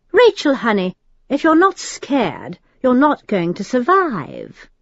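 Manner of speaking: mock-tender demon warning. A narrator's reading. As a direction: condescend to her sweetly, slowing down. Al voiced by narrator.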